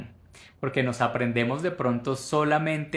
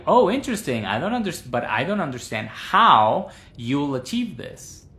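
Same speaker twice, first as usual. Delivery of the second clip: modelled intonation; 3 semitones higher, 5 dB louder than usual. Shown as a demonstration. Teacher replaying the whole model sentence for the class. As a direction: sound curious then puzzled.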